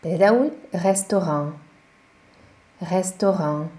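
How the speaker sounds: restaurant as restoran with a nasal end; French restaurant. Shown as a demonstration. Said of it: "azt O-nak ejtjük".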